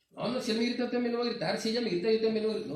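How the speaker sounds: high-pitched stubborn retort; esposo desafiante. Acted. Acts out defiant husband in quarrel. (terco y respondón, con voz aguda)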